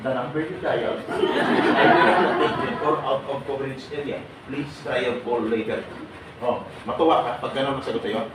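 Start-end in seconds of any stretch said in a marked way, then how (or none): 0.0-5.8 slow, lightly imitated operator message; mock the automated network voice; a hint of a recorded phone operator; phone recording. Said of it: "ang sasagot sa'yo, ganito".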